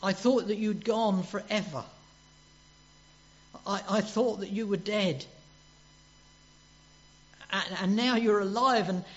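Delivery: clinging in joyful disbelief; mild, imagined Mary, overjoyed; Mary's overwhelmed cry. Retold or imitated. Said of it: "it's almost like she's saying".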